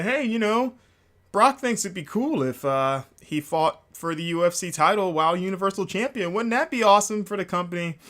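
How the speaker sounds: high, hurried mock panic; imitating a frantic pitch to the boss; panicked Paul Heyman. Paul Heyman pitching Kurt in mock panic. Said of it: "a very panicked Paul Heyman".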